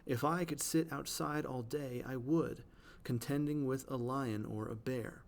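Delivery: "If I could sit outside all day, I would, contending with a lion or a bear" leaning on every second syllable; measured verse reading of "If I could sit outside all day, I would, contending with a lion or a bear", alternating weak and strong; iambic stress demo. Shown as a demonstration. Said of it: "So are these two lines".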